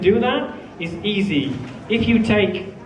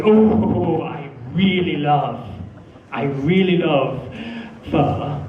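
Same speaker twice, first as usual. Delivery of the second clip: with feeling; 3 semitones lower, slower than usual. Shown as a demonstration. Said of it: "He wants to see feeling".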